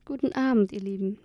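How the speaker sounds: put-on an old woman's croak. A narrator's reading. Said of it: "krächzt sie".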